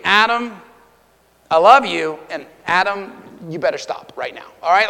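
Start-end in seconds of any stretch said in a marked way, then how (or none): 0.0-2.2 affectionate, lightly imitated wife's tone; loving wife. Wife telling her husband she loves him, lightly imitated loving tone. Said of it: "difference in the tone of her voice". 2.6-4.4 lightly imitated wife's stern warning, lower than the endearment. Wife warning her husband to stop, lightly imitated stern tone. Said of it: "difference in the tone of her voice".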